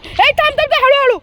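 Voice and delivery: urgent warning. Real, not acted. Owner slowing dog down, urgent high warning. Tells dog to stop, slow down.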